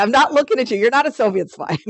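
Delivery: mock innocent denial. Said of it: "And he says".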